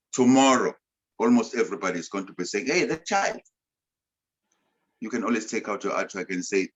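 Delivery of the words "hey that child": put-on high, bright call of someone pointing out a child, pitched well up; mock call across a crowd, pointing someone out; imitating people calling out. Speaker imitates people who recognise the child, a high call.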